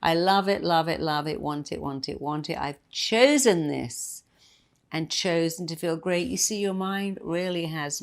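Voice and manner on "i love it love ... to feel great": firm chant to yourself mid-workout; emphatic affirmation. Shown as a demonstration. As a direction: stress love and chosen, building conviction. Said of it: "say it again".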